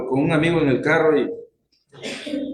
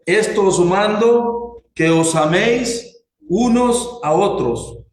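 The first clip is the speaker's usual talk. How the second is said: slow, measured Bible reading; slow proclaimed verse; scripture reading; 3 semitones higher, slower than usual. Acted. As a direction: read the verse out deliberately, word by word. Reads scripture aloud to congregation.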